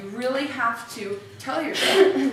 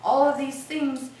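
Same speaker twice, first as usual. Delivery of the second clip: amazed; 4 semitones higher than usual. Retold or imitated. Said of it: "be like".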